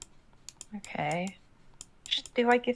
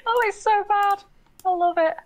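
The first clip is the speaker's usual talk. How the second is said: laughing; 10 semitones higher than usual. Real, not acted. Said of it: "I'm laughing at my atrociously bad".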